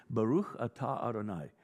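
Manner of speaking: Hebrew "Baruch atah Adonai" said with a throaty ch in "Baruch"; Hebrew blessing. Shown as a demonstration. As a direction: recite "Baruch atah Adonai" as in Jewish worship. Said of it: "a formula that is invoked".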